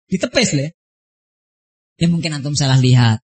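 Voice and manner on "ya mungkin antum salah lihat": low-pitched, calm quoted reply; gentle doubt. Retold or imitated. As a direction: imitate a patient teacher playing it down. Ustadz soothing the complainer.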